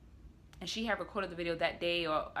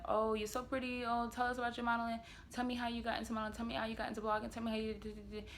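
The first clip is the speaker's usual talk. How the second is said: higher, quickened mock fan chatter; imitating gushing followers; 5 semitones higher, faster than usual. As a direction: rattle off fans' questions in a higher voice. Mimicking gushing messages from followers.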